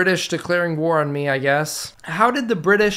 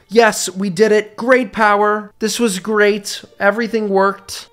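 higher-pitched, triumphant delivery; excited celebration; 4 semitones higher than usual. Real, not acted. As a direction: celebrate a win in a raised, excited voice. Celebrates reaching great power.

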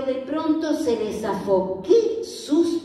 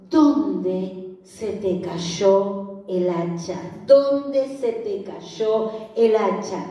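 lower, slow, calm asking; calm, unhurried prophet; gentle question; 4 semitones lower, much slower than usual. Retold or imitated. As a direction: ask like a patient teacher. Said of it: "el profeta no lo reta".

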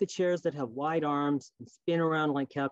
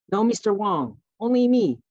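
put-on high, louder Chinese-accented protest; mother's insistent reply; 7 semitones higher, 8 dB louder than usual. Mother corrects the policewoman, high and loud. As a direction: cut the policewoman off firmly. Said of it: "mother said".

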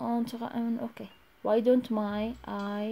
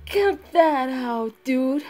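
slow ghost voice; much slower than usual. Acted. Ghost voice speaks.

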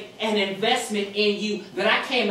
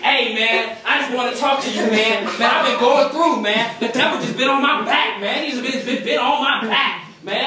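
hammed-up troubled caller, played for laughs; mock complaining phone voice, pushed louder; imitated caller; 4 dB louder than usual. Caller unloading troubles on the preacher, imitated caller. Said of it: "they were talking just like this".

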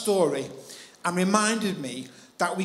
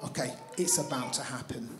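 quiet divine voice; 8 semitones lower, 10 dB quieter than usual. Retold or imitated. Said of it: "he's like".

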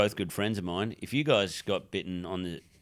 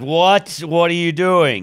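loud startled question; shocked; 7 semitones higher, 11 dB louder, slower than usual. Retold or imitated. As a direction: react in shock at the phone. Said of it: "She's like".

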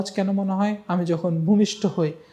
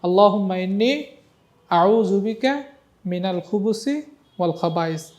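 recite along. Shown as a demonstration. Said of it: "দেখে আমার সাথে একটু বলেন তো".

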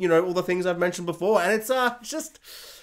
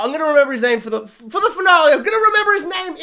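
mock determined vow; 9 semitones higher, 8 dB louder, faster than usual. Real, not acted. Vowing to remember the name.

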